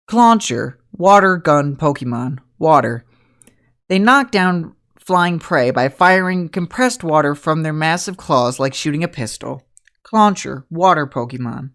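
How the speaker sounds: slow, measured device readout; Pokédex voice. Acted. Game master voices Pokédex describing the crab, slow measured readout. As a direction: read like a robotic encyclopedia entry. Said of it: "The Pokédex is gonna go".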